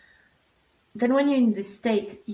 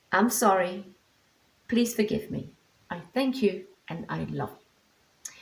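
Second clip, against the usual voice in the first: mantra run through quickly as a sample; quick mantra demo. Shown as a demonstration. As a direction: recite the mantra briskly, just to show it. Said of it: "I go quickly into it".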